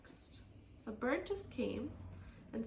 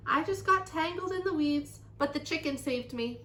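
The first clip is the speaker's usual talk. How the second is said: high, raised voice easing down; calling out; 5 semitones higher, 7 dB louder than usual. A narrator's reading. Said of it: "she called".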